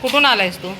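sing-song high coaxing to a stray puppy. Real, not acted. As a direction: coax the lost dog in a high, loud pet voice. Talking to a stray dog.

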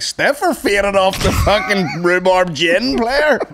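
mock incredulous. Mock retort in story.

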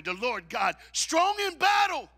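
high, loud, slow battle cry; preached shout. Acted. Preacher roars the psalm to the church, shouting. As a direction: roar it out.

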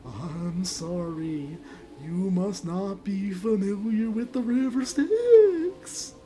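slow, wailing ghostly voice. Acted. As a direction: stretch every word like a mournful ghost. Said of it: "I'll do a ghost voice".

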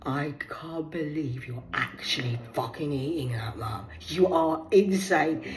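put-on whispered teen disgust. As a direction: hiss it in disbelief.

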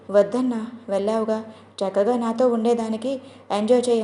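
ordinary delivery, nothing marked

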